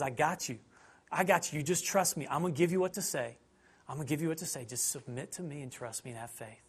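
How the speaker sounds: calm them like a friend; reassuring Spirit. Retold or imitated. The Spirit comforting an anxious believer, soft.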